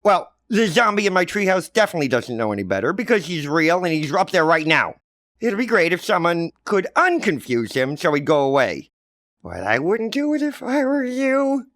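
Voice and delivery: put-on high, loud kid, slyly warning; knowing kid. Johnny slyly warns his mother off, high and knowing. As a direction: warn her with a knowing hint.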